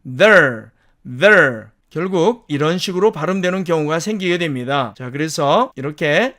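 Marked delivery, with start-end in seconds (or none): 0.0-1.7 "there" reduced to "ther", vowel gone dull; weakened there. Shown as a demonstration. Teacher showing learners the weakest form, reduced. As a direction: say "there" weakly as a schwa plus r. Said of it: "약해지면 there".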